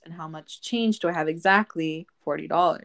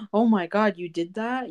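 mock shock; 3 semitones higher than usual. Shown as a demonstration. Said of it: "you don't wanna, like, react like".

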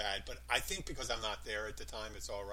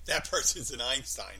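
sarcastic; 5 dB louder than usual. Shown as a demonstration. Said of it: "Like that, you're meaning the exact opposite".

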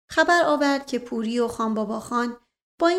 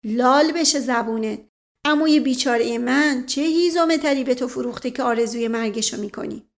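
outraged shout; 4 dB louder than usual. Acted. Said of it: "فریاد دوست علی به آسمان رفت".

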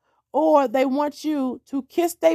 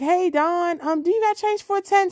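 lightly imitated neighbour, pitched higher; neighbour asking favour; 5 semitones higher than usual. Neighbour suddenly friendly, asking favour.

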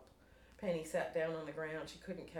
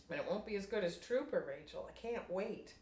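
a touch higher, excited Penny; bubbling anticipation, lightly voiced; mild excitement; eager; 4 semitones higher, 4 dB louder than usual. Penny excited about concert.

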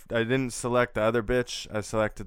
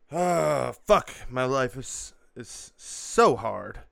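drawn-out self-pitying whine; whiny complaining; slower than usual. Acted. Whining to viewers about how hard life is, drawn-out complaint. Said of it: "like a liberal whiny bitch".

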